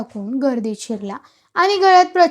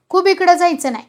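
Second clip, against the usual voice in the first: raised, higher voice of protest; crowd shout; 5 semitones higher, 5 dB louder than usual. A narrator's reading. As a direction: call out like one villager in an uproar. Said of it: "सर्व गाव ओरडू लागला". (गावकऱ्याची ओरड)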